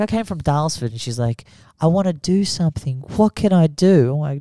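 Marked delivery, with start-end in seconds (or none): 0.0-0.9 higher, lightly imitated French accent. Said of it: "obviously with a fucking French accent". 1.8-4.1 high-pitched mock French accent. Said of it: "obviously with a fucking French accent".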